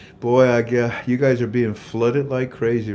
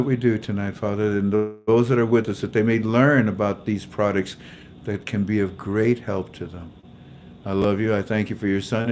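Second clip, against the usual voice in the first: opening prayer. Real, not acted.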